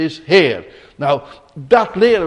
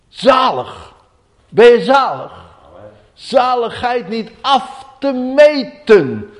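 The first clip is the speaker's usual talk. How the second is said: higher, louder, slow and raised; fervent exclamation; 8 semitones higher, 5 dB louder, slower than usual. Acted. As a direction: marvel at blessedness aloud. Preacher exclaims with rising emphasis. (vurig uitgeroepen)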